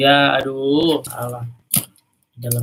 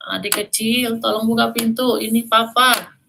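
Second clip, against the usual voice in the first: higher, sweet disguised giant voice; giant faking papa; 9 semitones higher, 3 dB louder than usual. Acted. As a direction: lure the kids as a fake dad. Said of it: "Suara raksasa".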